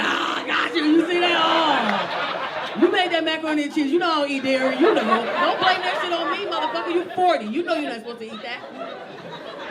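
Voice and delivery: loud, laughing accusation; mock accusing. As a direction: point the finger, laughing. Woman blaming man, mock argument.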